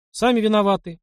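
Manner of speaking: high, brushing it off; a careless shrug in the voice; dismissive. A narrator's reading. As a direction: wave the matter away. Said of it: "отмахнулся Мишка".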